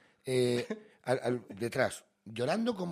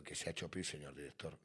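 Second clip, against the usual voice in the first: meek tone; 20 dB quieter than usual. Retold or imitated. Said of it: "Yo ya con un tono".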